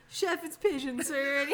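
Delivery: imitated contestant. Retold contestant presenting dish to chef.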